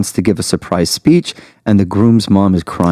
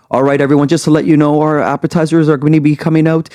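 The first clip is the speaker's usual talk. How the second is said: higher-pitched event announcer, building steadily in pitch to the count; MC announcement; 6 semitones higher than usual. Acted. Planner cueing the DJ over music, rising MC announcement. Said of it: "making announcements ... after I'm like".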